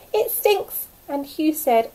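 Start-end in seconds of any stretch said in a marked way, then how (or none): 0.1-0.9 higher, louder disgust. A narrator's reading. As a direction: pull a face at the smell. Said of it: "and Len said, Pooh".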